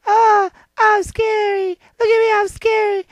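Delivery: drawn-out, lightly voiced scary lion. Retelling the lion trying to scare them, mock-scary. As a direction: stretch it out like a play monster. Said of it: "and the lion's like".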